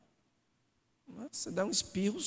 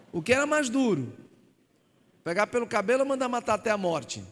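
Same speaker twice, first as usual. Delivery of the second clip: louder and higher, driving each question; full-force preaching; 3 semitones higher, 5 dB louder than usual. Real, not acted. Preacher challenging the congregation, loud and high. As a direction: preach it up to the rafters.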